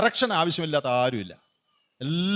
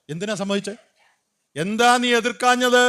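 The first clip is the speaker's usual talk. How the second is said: mock rebuke, higher and louder, slowing down; Peter's rebuke; 6 semitones higher, 5 dB louder than usual. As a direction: play Peter scolding the wife, louder at the end. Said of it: "പത്രോസ് വഴക്ക് പറഞ്ഞു".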